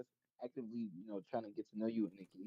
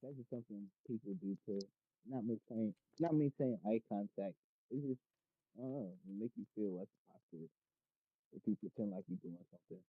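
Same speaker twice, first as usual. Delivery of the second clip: muffled speech, like a hand over the mouth. Real, not acted. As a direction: talk muffled, as if into a pillow. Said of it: "Sorry, it's just kinda muffled".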